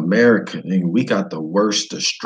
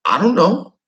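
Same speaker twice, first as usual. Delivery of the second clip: higher, louder shrugged answer; squeaky mock shrug; high unsure reply; 12 semitones higher, 4 dB louder than usual. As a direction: dodge the question. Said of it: "I'm like".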